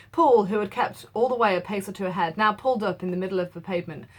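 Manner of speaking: measured classroom read-aloud; steady literary narration; story reading. A narrator's reading. Teacher reads the novel aloud.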